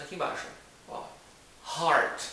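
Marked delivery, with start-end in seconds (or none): 1.8-2.2 loud, clear model of "heart"; heart pronounced correctly. Shown as a demonstration. Teacher modelling the word for learners, "heart" pronounced correctly. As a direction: say "heart" with an open vowel. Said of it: "A pronúncia dessa palavra é".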